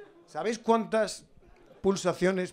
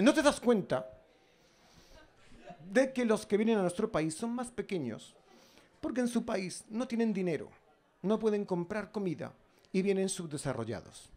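put-on voice; 3 semitones higher, 3 dB quieter than usual. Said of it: "yo le pongo esta voz".

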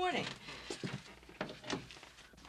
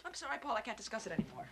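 softer, lower, spent; wife gives up, drained; broken quiet; 7 semitones lower, 9 dB quieter, faster than usual. Acted. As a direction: let it fall away.

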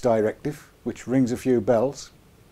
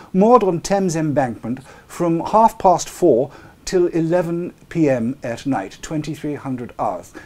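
neat standard southern English; received pronunciation read; BBC English. Shown as a demonstration. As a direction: read it out properly, like a newsreader. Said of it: "So I'll do that in plain English, BBC English".

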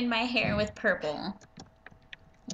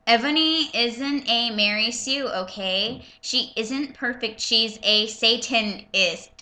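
mock indignant; 3 semitones higher, 5 dB louder, slower than usual. Reader voices the fanfic author warning flamers, mock indignant. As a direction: hammer out each misspelling in mock outrage. Mocking the author's misspelled note.

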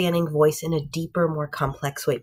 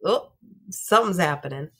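mock worried uh-oh; 3 dB louder than usual. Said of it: "you go".

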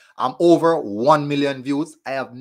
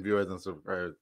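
Sir P voice; 6 semitones lower, 10 dB quieter than usual. Pretend. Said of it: "the Sir P voice".

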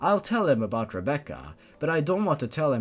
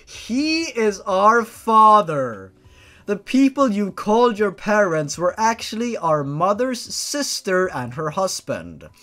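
sister voice; 6 semitones higher, 6 dB louder than usual. Acted. Sister character reveals truth.

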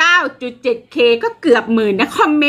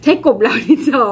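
lightly voiced baffled Westerner; a mock confused farang; a hint of a bewildered foreigner; puzzled foreigner. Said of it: "ฝรั่งอาจจะงง".

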